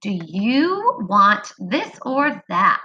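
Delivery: slow, clear question; slow modeled reading. Shown as a demonstration. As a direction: read it word by word. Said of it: "Go ahead and say those letters".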